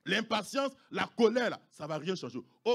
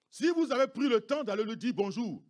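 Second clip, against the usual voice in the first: raised, louder preaching repeat; 5 semitones higher, 9 dB louder than usual. Acted. Pastor pressing the congregation, louder second time. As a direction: drive the repeat home louder.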